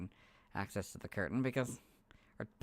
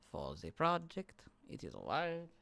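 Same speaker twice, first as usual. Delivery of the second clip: put-on anime boy voice; 4 semitones higher, 4 dB quieter than usual. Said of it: "let me add an anime voice".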